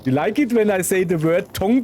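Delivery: mock English accent. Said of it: "foreign voices".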